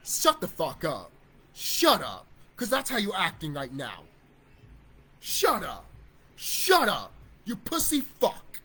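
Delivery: loud, slow contempt; loud furious put-down; angry telling off. Real, not acted. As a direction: tell them to shut up with real scorn. Angry rant at timid YouTubers.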